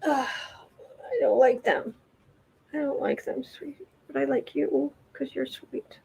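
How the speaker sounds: hushed, tender talk to a pet; soft pet talk. Real, not acted. Owner cooing quietly to her pet. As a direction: coo softly to the animal.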